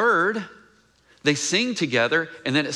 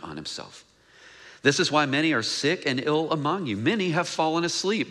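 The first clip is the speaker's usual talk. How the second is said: a touch of solemn reading voice; scripture reading. Acted. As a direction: read the verse gravely, close to plain. Reads the scripture passage aloud.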